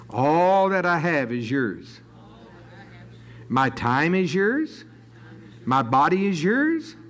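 deliberate phrases with long pauses; prayerful declaration. Real, not acted. Servant pledging all to Jesus, in prayerful declaration. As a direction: declare each line firmly as a pledge.

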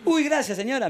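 high-pitched gushing thank-you; effusive thanks. Acted. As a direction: thank the hostess in a high, delighted voice. Acts out thanking the hostess.

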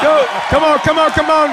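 rowdy jeering pub banter. Real, not acted. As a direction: hype him up. Urging fan to chug.

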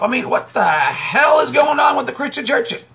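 shouting it out in outrage; indignant shout. Real, not acted. Ranting at Christian churches.

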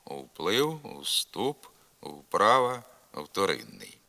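"Вплив, вступ, вправа, вторинний" as a list, each В rounded, never F; initial В as non-syllabic U. Shown as a demonstration. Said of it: "вимовляється нескладовий звук У".

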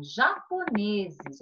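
japoneses spelled out very slowly, syllable by syllable; slow dictation. Shown as a demonstration. Teacher to pupils giving the plural, very slowly. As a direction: drag out japoneses for the class. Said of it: "Qual é o plural da palavra japonês?".

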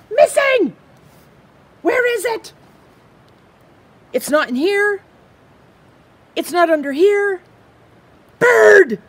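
high, fast, frantic little squirrel voice; excitable squirrel. Acted. Squirrel frets over his missing leaf, high and anxious. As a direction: play the squirrel, jumpy and loud.

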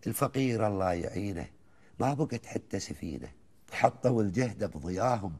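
chanted Gulf verse, rising and falling lines; poem recitation. Acted. Host listens as he recites the old poem, measured and rhythmic. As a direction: recite it like a folk poet to the host.

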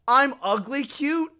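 high, slow incredulous question; mock touched streamer. Mimics the crying streamer.

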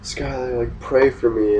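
put-on hushed, shaken plea to a girlfriend; mildly frightened, quiet urgency; retold fear. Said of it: "I was so afraid".

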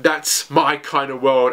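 normal talking voice

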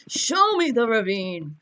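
loud, drawn-out mock-angry demand; aggressive demand. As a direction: demand it slowly, like an unhinged bully. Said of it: "start slapping them aggressively".

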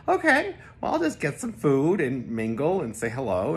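high, bright-eyed self-talk; a cheery high inner thought; chirpy inner voice. Retold or imitated. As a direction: sing it out to yourself cheerfully.

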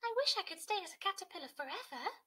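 Cody pleading to stay a caterpillar. Acted.

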